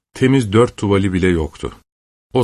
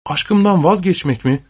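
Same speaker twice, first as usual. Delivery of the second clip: mock outcry; 9 semitones higher than usual. A narrator's reading. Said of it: "diye bağırdı Pusan".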